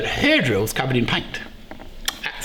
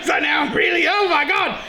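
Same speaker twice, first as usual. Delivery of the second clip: panicked surprise; 11 semitones higher than usual. Real, not acted. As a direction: voice jumps much higher, laughing in disbelief. Panics discovering drills differ.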